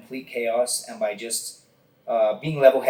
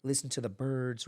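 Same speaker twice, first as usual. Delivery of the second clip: real calm; 4 dB quieter than usual. Retold or imitated. Instructor softly talking a suffering student through the hold. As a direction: talk them down gently, like guiding a meditation. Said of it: "Real calm".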